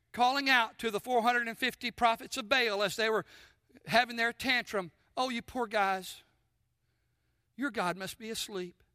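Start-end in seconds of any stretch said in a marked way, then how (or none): 5.2-8.8 quietly snarky mock pity, dropping softer; mock compassion. Elijah taunting the prophets of Baal, in mock compassion. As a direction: feign gentle sympathy, understated and sarcastic. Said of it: "he probably said it very quietly".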